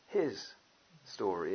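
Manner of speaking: his ... story split apart with a pause; wordplay emphasis. Shown as a demonstration. Preacher stressing the wordplay: his, pause, story. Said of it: "it's Jesus' story".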